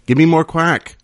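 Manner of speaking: loud call up the cliff; calling up a rope. Retold or imitated. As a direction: shout it up to the belayer. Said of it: "the mountain climber was".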